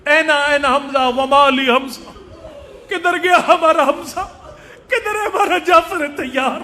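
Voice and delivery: imitating a weeping woman's mourning cry; drawn-out, plaintive retold keening; tearful lament. Preacher voices daughter mourning at martyrs' graves, tearful lament. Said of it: "رو رو کے کہتی".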